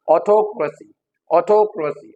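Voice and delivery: "autocracy" as aw-TOK-ruh-see; stress on TOK. Shown as a demonstration. Teacher repeating the right form, stressed on TOK. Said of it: "थक पे जो है".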